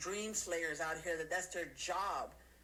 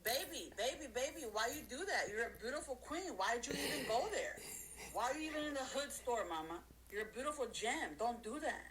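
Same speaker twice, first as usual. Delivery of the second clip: raised, teasing singsong of a catcaller; mock catcaller; 4 semitones higher than usual. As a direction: croon it like a street flirt.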